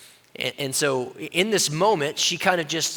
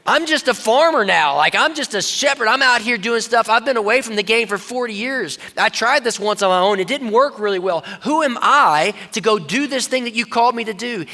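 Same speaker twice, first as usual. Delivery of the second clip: higher, louder, pleading excuses; hammed-up anxious Moses, raised and loud; whining Moses; 5 semitones higher, 4 dB louder than usual. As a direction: play an insecure man making excuses. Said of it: "Moses is going".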